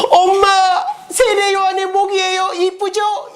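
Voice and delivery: put-on very high, sing-song little-girl voice; hammed-up daughter proudly presenting a gift; 살로메. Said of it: "이 살로메가". (아주 높고 간드러진 딸 목소리로 자랑하듯)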